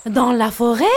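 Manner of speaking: surprised exclaim. Acted. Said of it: "s'exclame maman".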